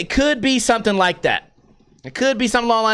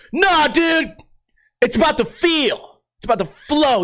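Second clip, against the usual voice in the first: high, insistent mock dude voice; hammed-up fan dismissal, pitched up; VX camera defender; 5 semitones higher than usual. VX fan rejects the list of flaws, mock insistent. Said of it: "That's how V X people defend".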